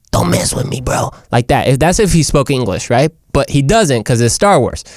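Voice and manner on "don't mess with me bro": high, husky little creature voice; small whispery alien threat; little guy. Acted. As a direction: play a feisty little alien. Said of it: "the little guy who's like".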